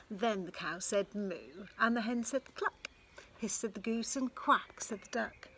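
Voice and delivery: lively storybook reading; reading to children. A narrator's reading. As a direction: read it like a picture book to kids. Reads a picture book aloud.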